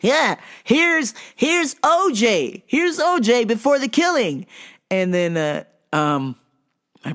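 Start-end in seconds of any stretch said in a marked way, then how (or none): 0.0-4.5 high, loud, laughing mock of the old man; mocking customer. Old customer telling the boss about O J, high mocking. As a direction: crow it like he's proud of the joke. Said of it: "He goes".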